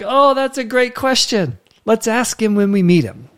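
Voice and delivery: charmed by her question; delighted. Retold or imitated. Father delighted by child's question.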